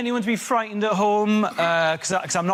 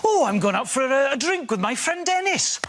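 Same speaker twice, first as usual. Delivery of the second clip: mock excitement; 7 semitones higher than usual. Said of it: "So you're like".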